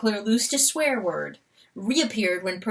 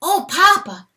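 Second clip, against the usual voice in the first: tender weasel address; 9 semitones higher, 7 dB louder than usual. Acted. Weasel understanding the stag, high and moved. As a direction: realize with awe, much higher. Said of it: "he said".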